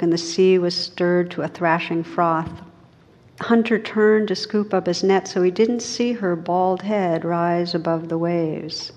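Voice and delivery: measured, unhurried storyteller voice; story reading. Acted. Teacher reading an Inuit tale to students, storytelling. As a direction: read the myth to a listening room. Reads Skeleton Woman story aloud.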